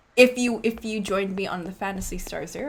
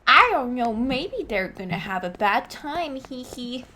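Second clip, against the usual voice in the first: prankster maid; 4 semitones higher than usual. Acted. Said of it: "she's just like".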